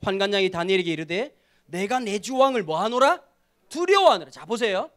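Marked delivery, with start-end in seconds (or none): 1.7-4.3 scripture reading. Acted. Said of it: "십 절을 한번 같이 읽어보실까요?".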